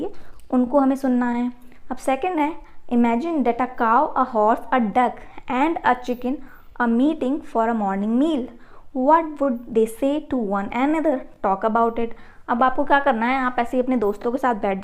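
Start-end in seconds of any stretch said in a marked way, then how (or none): 2.9-12.1 slow, careful reading aloud for pupils; slow textbook reading. Acted. Teacher reading the task aloud to pupils, slow and deliberate. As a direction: read each English word out slowly and clearly.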